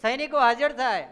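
high, very loud summons; royal shout. Acted. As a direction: shout for the guards like a commanding king. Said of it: "સૈનિકોને બૂમ પાડી". (રાજાની ઊંચા અવાજે બૂમ)

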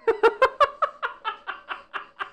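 high loud burst of laughter; shrieking laugh. Real, not acted. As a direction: crack up in disbelief. Laughs again.

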